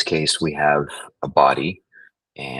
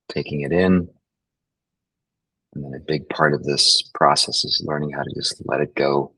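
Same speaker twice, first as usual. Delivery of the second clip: unhurried meditation guide, long pauses; guided meditation. Acted. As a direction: guide them gently through the breathing, leaving space. Leads a breathing meditation.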